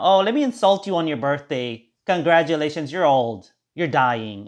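a hint of a sarcastic card voice; mock birthday card. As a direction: read it like a snide card teasing the birthday guy. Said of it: "So that's the funny now".

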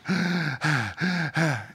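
a soft, drawn-out gasp. Shown as a demonstration. Preacher recalls standing exhausted on the field with a weary gasp. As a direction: let one exhausted breath fall away. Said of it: "I'm standing there gasping".

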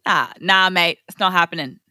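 hammed-up Australian accent; Aussie accent. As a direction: refuse like a caricature Aussie. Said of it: "Aussie accent".

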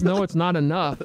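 a lighter mimicked screech; mock Karen yell. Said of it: "here's high-pitched screaming Karen in Hawaii".

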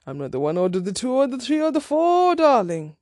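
mock-indignant retort, swelling as it goes; sassy put-down. Telling off the dating match she just unmatched, sassy.

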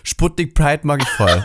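slow laughing mock fan gush; imitating a fan. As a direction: drag it out through laughter. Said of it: "Und er sagt".

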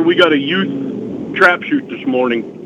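slow, drawn-out drawl; mountain man. Real, not acted. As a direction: draw the words out slowly. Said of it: "slowed down a little and drew it out".

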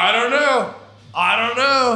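high, loud frantic repeat; hammed-up panic, fending off questions; freaking out. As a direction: act out a freaked-out outburst. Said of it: "freaking out, just be like".

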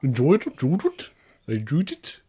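high, rising incredulous echo; mock disbelief. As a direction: repeat it back in teasing disbelief. Teasing the child's answer.

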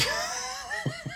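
wheezy laugh trailing off quietly; real laugh. Real, not acted. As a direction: crack up at your own story. Laughs after retold pizza exchange.

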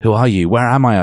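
half-hearted panicked demand; mock scream. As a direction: read a scream with little force. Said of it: "I screamed".

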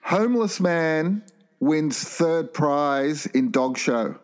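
slow, deadpan headline read; mock headline read. Host reading a silly headline to the guests, slow deadpan. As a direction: read it like a news bulletin, slowly. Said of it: "I have some headlines for you".

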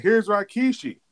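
mimicked wrestler, pitch falling away by the end; Rikishi. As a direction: do a mocking wrestler impression. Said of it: "he was mimicking everybody".

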